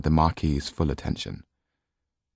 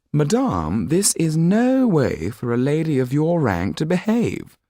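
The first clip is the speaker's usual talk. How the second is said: higher, stiff reproach to a lady; curt Marquis; 10 semitones higher, 3 dB louder than usual. Acted. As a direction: cut her off coldly and haughtily. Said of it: "he said curtly".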